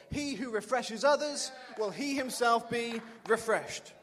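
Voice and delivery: ringing preacher's shout of the verse; proclaimed loud. Real, not acted. Preacher shouting the key verse to the congregation, loud proclamation. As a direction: call it out to the whole church.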